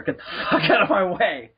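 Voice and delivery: mock rude line broken by a laugh; laughing through it. Retelling a fake comeback to a street seller, laughing. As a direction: laugh mid-insult at the pushy seller.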